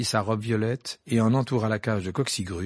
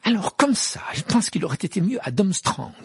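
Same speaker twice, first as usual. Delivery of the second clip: higher, louder angry retort; 9 semitones higher, 3 dB louder than usual. A narrator's reading. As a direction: snap it out in irritation. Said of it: "dit-elle avec colère".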